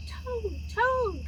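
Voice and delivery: high calling voice. A narrator's reading. Frog calling into Toad's house. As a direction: call him from outside. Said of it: "called Frog".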